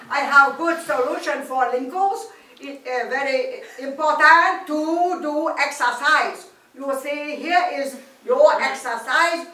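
loud, hammed-up Chinese doctor accent; comic Chinese accent, loud and slow. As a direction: play a bossy Chinese skin doctor. Chinese specialist explains exercise.

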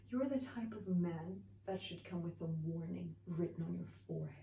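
hushed low accusation. Acted. Low soft teasing accusation.

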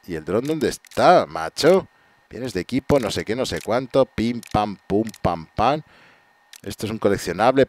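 normal talking voice

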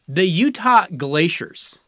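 slow name announcement. Acted. Host unveiling a proposed team name, slowly announced. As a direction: announce it slowly like a draft pick. Reading out candidate team names.

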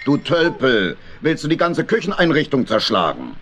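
put-on grumpy old uncle snapping at the clumsy hedgehog; bad-tempered scolding. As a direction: tell him off, cross and impatient. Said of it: "Wenn Onkel Dominik schlechter Laune war". (schlecht gelaunter Onkel schimpft mit dem Igel)

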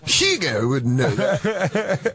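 slow, high giggly voice; laughing. Acted. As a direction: laugh through the words slowly. Seance bit, laughing.

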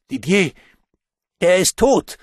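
high, loud shaken outburst; stammering. A narrator's reading. Nico reports a death on the phone, stammering in shock. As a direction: blurt the news in shock. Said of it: "stammelte der".

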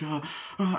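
imitated short cries of shock; mock gasps. Retelling her finding the doctor dead, mock gasps. Imitates reaction to needle in eye.

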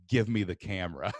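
low, measured, menacing demand; mean voice. Retold or imitated. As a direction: demand it in your meanest low voice. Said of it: "Like the meanest voice I could".

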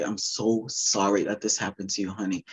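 a hint of a soft tender mother. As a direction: comfort her like a loving mother. Voicing wished-for mother.

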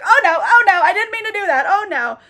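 freaked-out mock apology, high and loud at first; Memnoch. Demon who accidentally ripped out an eyeball, freaking out. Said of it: "Memnoch freaks out".

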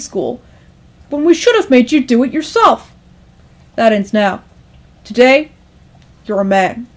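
lightly voiced stern dad; firm, emphatic parental speech; lecturing father. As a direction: drive the lesson home to your son. Father lecturing his son.

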